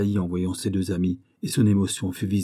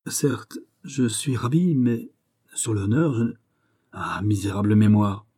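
flustered, halting search for words; embarrassed hesitation, broken by pauses; stammering. Acted. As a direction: falter between fragments as memory fails. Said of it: "et finit par balbutier".

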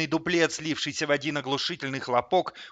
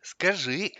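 slow, higher, solicitous purr; caring purr; 3 semitones higher, slower than usual. A narrator's reading. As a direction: coax him with fake-sweet concern. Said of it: "заботливо промурлыкал Лысый". (заботливо мурлыча)

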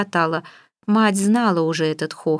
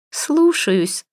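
high mock-obedient «Слушаюсь»; sarcastic yes-ma'am, pitched up; ironic; 8 semitones higher than usual. A narrator's reading. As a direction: daughter mockingly obeying her mother. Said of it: "иронически отвечала Саняша".

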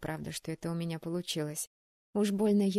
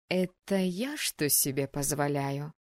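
flaring up; 4 semitones lower than usual. Acted. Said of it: "Опять взвилась".

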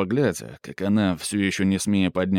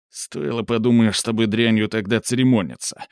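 through teeth. Acted. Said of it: "сквозь зубы".

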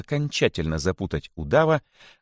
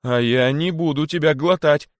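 high, louder refusal; sudden outburst; 9 semitones higher, 6 dB louder than usual. A narrator's reading. Young boa suddenly refusing to swallow the rabbit, loud outburst. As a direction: blurt it out defiantly. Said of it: "неожиданно воскликнул удав".

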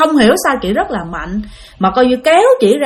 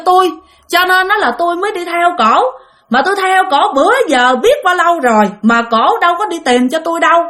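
higher, pleading ghost woman's voice; strange possessed voice; 5 semitones higher than usual. Retold or imitated. Possessed woman tells the incense man she seeks her husband, higher eerie voice. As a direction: voice the wandering ghost lamenting her dead husband, pitched higher. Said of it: "cái giọng nói của chị rất là kỳ".

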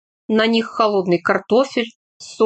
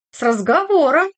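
marked higher emphasis on "разговором"; stress on last word; 5 semitones higher than usual. A narrator's reading. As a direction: lean pointedly on "разговором". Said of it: "Особо подчеркнула она последнее слово".

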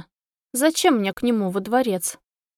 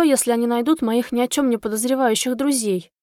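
ordinary delivery

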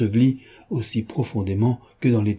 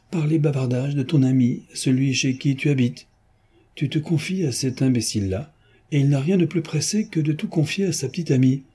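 lightly voiced mocking gentleman thief; a hint of a playful rogue gloating; lightly voiced jaunty Lupin; teasing Lupin; 3 semitones higher than usual.

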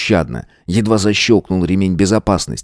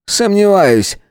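higher, offhand brush-off; careless dismissal; 13 semitones higher, slower than usual. A narrator's reading. Georg carelessly brushes off Matvey. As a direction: wave it away. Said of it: "небрежно отмахнулся".

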